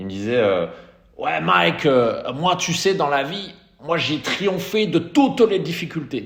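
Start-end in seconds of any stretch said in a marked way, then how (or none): 1.2-6.2 put-on southern French accent, pitched up. Imitating how someone used to talk, southern french accent. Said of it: "il avait l'accent du sud, ... je te fais l'imitation".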